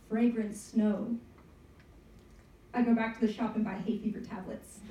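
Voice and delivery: measured spoken-word poem with pauses; poem recitation. Acted. Poet reading to an audience on National Poetry Day, performed recitation. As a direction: read it out as a narrative poem. Reads their own narrative poem.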